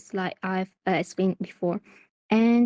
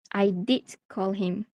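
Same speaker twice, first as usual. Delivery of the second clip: "did" stressed in a slow "I did call him". Shown as a demonstration. Teacher demonstrating emphasis on the action, stress on "did". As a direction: lean on "did", drawing the phrase out. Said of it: "It emphasizes the actions of calling".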